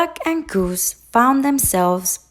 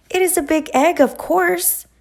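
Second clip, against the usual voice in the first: high, know-it-all goose; 10 semitones higher, faster than usual. A narrator's reading. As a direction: talk down to Duck as a smug goose. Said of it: "Goose honked".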